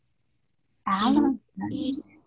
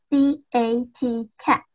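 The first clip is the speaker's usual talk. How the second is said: letters spaced out one by one; slow spelling; 2 semitones higher than usual. Shown as a demonstration. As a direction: spell cat out clearly for the class. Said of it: "Which number is it?".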